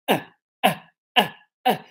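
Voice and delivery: short stressed "ah" with spread lips; carrot vowel. Shown as a demonstration. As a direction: repeat "ah" as the strong, further-back carrot vowel. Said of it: "ele fica distendido".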